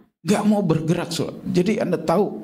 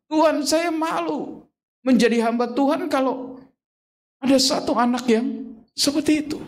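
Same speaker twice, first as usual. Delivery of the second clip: retold anguished prayer; 11 semitones higher than usual. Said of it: "Saya bilang".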